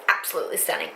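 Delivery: soft imitation of an Australian accent. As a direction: say it lightly like an Australian vlogger. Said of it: "Australian accent".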